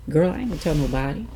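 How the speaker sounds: brother's voice. Retold or imitated.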